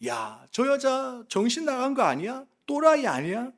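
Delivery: mildly mocking onlookers; imitated sneering. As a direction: imitate young people jeering, lightly. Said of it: "이렇게 비아냥거리는 모습을". (살짝 비아냥거리는 흉내로)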